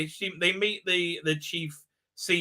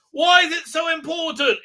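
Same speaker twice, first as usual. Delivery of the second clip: mock question; 11 semitones higher, 6 dB louder than usual. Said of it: "Dan's like".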